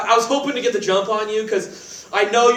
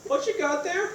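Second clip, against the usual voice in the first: agent voice; 9 semitones higher, 7 dB quieter than usual. Acted. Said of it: "This agent voice is super cool".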